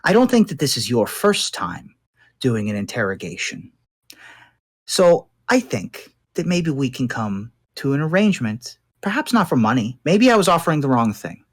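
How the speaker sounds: lightly voiced captive crime boss, deliberate pauses; bargaining gang boss. Captured boss bargains with interrogator to leave the chair, measured and deliberate.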